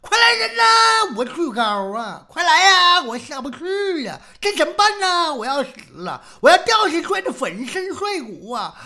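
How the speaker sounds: high, loud hammed-up wailing; comic terror, stranded up high; panicked cry for help. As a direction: yell for rescue, each cry starting at a shriek. Stranded master yells for help.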